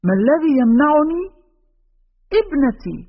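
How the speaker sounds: put-on high, rising challenge from an old mother; fierce mother's retort, acted; chilling defiance. A narrator's reading. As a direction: throw the question back, pitched high. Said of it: "أن النبرة التي لفظت بها العجوز هذه الكلمات قد جعلت الرجفة تسري".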